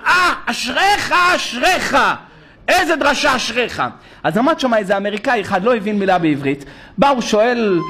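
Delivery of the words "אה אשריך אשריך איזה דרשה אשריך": excited praise. Retold or imitated. Congregant praising the rabbi's sermon, excitedly. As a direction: gush over the sermon. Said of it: "אומר לי".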